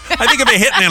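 laughing while talking. Real, not acted. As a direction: say it through a laugh. Laughing through the line.

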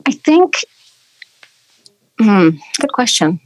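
pondering, drawn-out hmm; thinking hmm. Real, not acted. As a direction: stall while you think it over. Pondering the question.

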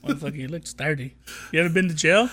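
lightly voiced tough cop interrogating; Bad Boys Two cop. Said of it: "do the scene from".

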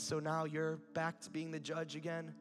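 calm, gentle question; a touch of tender reproof, in an even voice; loving. Acted. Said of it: "God just so lovingly says".

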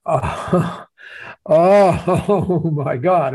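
long drawn-out, amazed oh; retold gasp of wonder, stretched out; awed realization. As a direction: act out the penny dropping, very slowly. Acting out his sudden realization.

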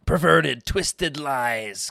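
a queen's loud, scornful opening; understated regal disgust, strongest on the first word. A narrator's reading. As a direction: spit it out with lightly acted disgust. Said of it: "her words saturated with disgust".

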